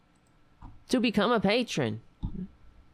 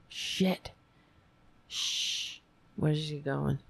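hushed whisper; 6 dB quieter, slower than usual. Real, not acted. Producer approaching, hushing.

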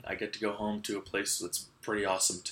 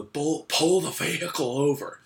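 raised, higher mock order; imitated yell; 7 semitones higher, 7 dB louder than usual. Retelling how the worker stopped the go-kart, imitated yell. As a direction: call it out as the angry worker.

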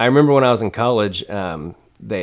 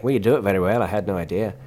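lightly mimicked Irish accent; reply as an Irish waitress; Irish lilt, conversational; faster than usual. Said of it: "And she's like".

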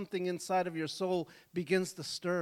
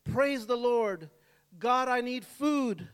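shouting prayer; 4 semitones higher, 4 dB louder, slower than usual. Retold or imitated. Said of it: "she stood on her porch and shouted".

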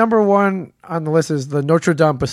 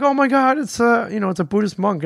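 high-pitched gushing tourist; excited tourist; 7 semitones higher than usual. Retold or imitated. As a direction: squeal it like an awed tourist. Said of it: "most tourists are like".

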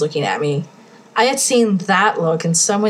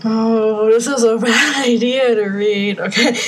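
laughing; 3 semitones higher than usual. Real, not acted. Laughing at fic.

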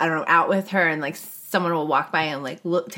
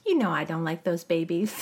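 put-on little baby voice; 2 semitones lower, 6 dB quieter than usual. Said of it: "little baby voice".

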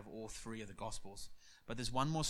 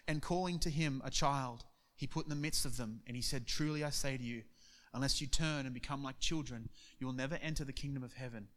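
steady scripture read. Acted. Preacher reading Matthew to the congregation. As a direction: read the passage out plainly.

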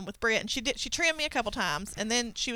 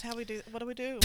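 hiccuping, quiet and panicked; hiccups; 12 dB quieter, faster than usual. Real, not acted. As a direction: speak between hiccups. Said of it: "You looked at me so panicked".

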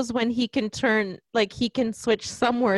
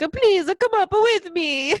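put-on pleading young man; 9 semitones higher, 3 dB louder than usual. Retelling Fabrizio begging the woman, in a higher mock plea. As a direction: beg her to come up, hammed up. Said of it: "And he's like".

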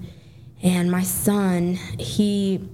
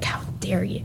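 choked-up, whispered retelling; tearful; 4 dB quieter than usual. Real, not acted. Veteran mother recalling confronting her little boy, tearful whisper. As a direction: voice drops to a whisper through real tears. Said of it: "here comes the tears".

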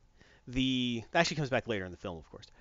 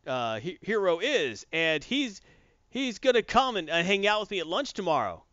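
mock boastful kid, pitched higher; 6 semitones higher, slower than usual. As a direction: brag like a nerdy kid showing off a hero friend. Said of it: "He's like".

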